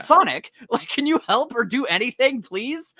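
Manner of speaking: high, laughing plea for help; mock pleading. Victim begging Sonic for help, high and pleading. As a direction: beg Sonic in a high, pathetic voice. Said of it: "It's like".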